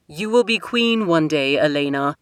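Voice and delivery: lightly voiced king, firm; a father settling the matter; a hint of a stern king. King's voice held by narrator.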